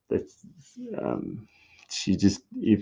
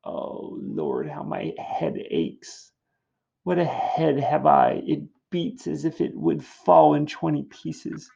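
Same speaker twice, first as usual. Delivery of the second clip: complaining nurse; 6 semitones higher than usual. Acted. Nurse blaming Juliet for her aches, complaining. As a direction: whine about every pain, hammed up. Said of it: "She's just complaining".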